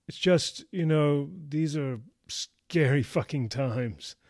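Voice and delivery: emphatic confession. A narrator's reading. Joe explaining her wariness to Wes, halting and emphatic.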